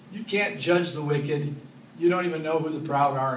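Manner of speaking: firm divine rebuke; voice of God. Pretend. God's voice to Job.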